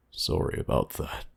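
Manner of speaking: put-on hushed, raspy old man voice; quiet raspy old man. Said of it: "the old man said in a quiet, raspy voice".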